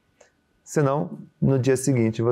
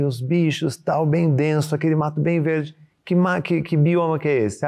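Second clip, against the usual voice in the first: put-on parent coaxing a child; 3 semitones higher than usual. Parent quizzing child on geography.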